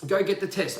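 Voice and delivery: short, curt order; curt quoted order. Retold or imitated. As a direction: bark it like an instruction. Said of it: "quoted demand".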